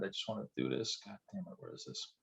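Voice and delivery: annoyed muttering, almost unvoiced; muttered to self. Real, not acted. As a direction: grumble it to yourself while searching the screen. Fiddling with screen, muttering to self.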